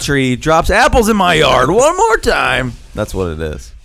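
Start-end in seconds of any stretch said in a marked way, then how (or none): 0.0-2.7 higher, put-on angry rant; mock neighborly threat. Fed-up neighbor threatening over the apple tree, mock angry.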